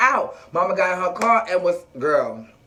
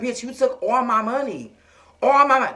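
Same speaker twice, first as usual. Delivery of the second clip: mock anger; 3 semitones higher than usual. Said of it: "Mercedes is like".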